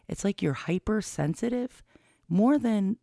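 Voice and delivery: faint nasal whistle on breaths; whistling nose. Real, not acted. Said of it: "Why is my nose whistling?".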